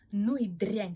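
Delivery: spat out with a full mouth. Acted. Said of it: "с набитым ртом процедил юноша". (с набитым ртом)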